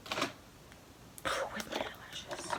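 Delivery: slow breathy whisper to herself; drawn-out whisper. Real, not acted. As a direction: drag the words out in a whisper.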